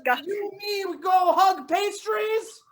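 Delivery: put-on halting French-accented invitation; hammed-up French speaker feeling for English words. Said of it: "like we are all from France".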